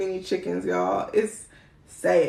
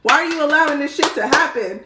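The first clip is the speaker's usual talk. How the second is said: retold panic rant; 4 semitones higher than usual. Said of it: "I was like".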